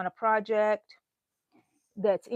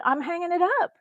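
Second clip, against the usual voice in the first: retold own words; 7 semitones higher, faster than usual. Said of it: "So I said".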